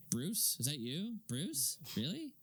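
slow, hammed-up gasping disbelief; mock the over-the-top realization; overdone surprise. Mocking Rachel's overplayed shock at Bruce, hammed-up. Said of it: "Don't make it like".

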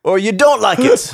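high, strained wrestler promo; Ric Flair. Acted. Podcaster continuing a wrestler promo over laughter, high and swaggering. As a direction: push it up high like a wrestler on the mic. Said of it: "That was nineteen eighties Ric Flair".

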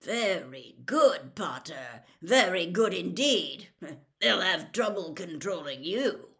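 loud, gruff excited Moody; Moody praising Harry to the class, loud and gruff; booming praise. Acted. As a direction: boom it to the whole class.

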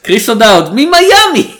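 name loud, then shoot far up on the place; loud incredulous exclamation. Acted. Mocking the casting to his co-host, loud high disbelief.

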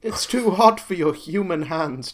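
high, loud, slow hammed-up plea; mock alarmed warning. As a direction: call out a pretend desperate warning. Pretend warning shouted at Jason.

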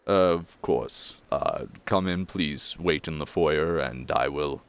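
a hint of a deferential servant; disheveled butler. Butler letting guests into the foyer, lightly deferential. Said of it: "and he goes".

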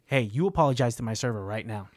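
low, measured order to apologize; low-voiced retold warning; controlled stern demand. Acted confrontation, first take of demand.

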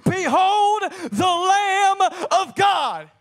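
high, slow, drawn-out shout; roar. Acted. John proclaiming the Messiah to the crowd, roaring. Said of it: "John roared".

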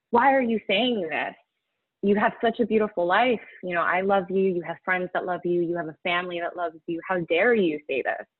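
a touch of hurt anger from the husband; husband snapping back at his wife's dark talk, mildly angry. Retold or imitated. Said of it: "his reaction was kind of angry".

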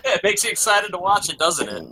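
laughing as you rib a friend; laughing tease. Real, not acted. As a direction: tease through real laughter. Teasing friend while laughing.

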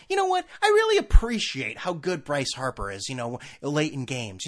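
lightly voiced earnest sports talk; mock earnest fan. Guys mocking fake earnest sports chat, lightly voiced. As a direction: play a fake sincere fan. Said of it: "We don't sit around going".

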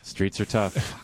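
slow, heavy, low street talk; slow gruff. Acted. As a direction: drag it out like a tough guy.

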